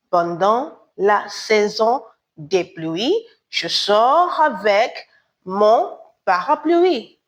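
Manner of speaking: slowed repeat for learners; patient repeat of the example sentence; slow model sentence. Shown as a demonstration. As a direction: spell the sentence out slowly for the class. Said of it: "repeats model sentence slowly".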